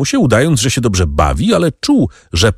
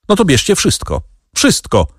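desperate shout; 10 semitones higher than usual. A narrator's reading. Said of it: "krzyknął Danglars".

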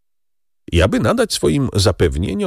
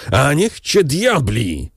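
slow furious curse, higher; wrzask; 6 semitones higher, slower than usual. A narrator's reading. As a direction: bellow the curse, slowly. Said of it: "wrzasnął Kadrus". (wolny, wściekły wrzask)

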